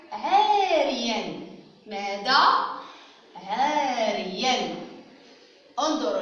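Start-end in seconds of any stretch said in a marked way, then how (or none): 0.1-1.4 عاريا very slowly as "aaa-riyan"; قراءة تعليمية. Shown as a demonstration. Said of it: "سأقرأ لكم بعض الكلمات". 3.4-4.8 عاريا very slowly as "aaa-riyan"; قراءة تعليمية. Shown as a demonstration. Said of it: "سأقرأ لكم بعض الكلمات".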